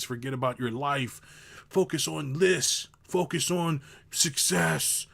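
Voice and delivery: sarcastic hustle-guru voice, mild; sarcastic advice. Pretend.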